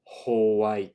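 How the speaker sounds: Hawaii said as hoai with ho; Japanese ho sound. Shown as a demonstration. Teacher shows the Japanese ho sound. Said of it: "the Japanese will have".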